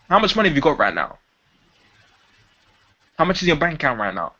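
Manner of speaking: invasive. Shown as a demonstration. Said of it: "That sounds invasive".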